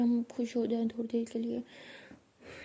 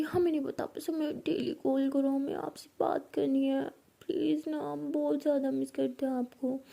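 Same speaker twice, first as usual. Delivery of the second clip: tearful pleading; 3 semitones higher than usual. Acted. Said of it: "रोते हो गए थे".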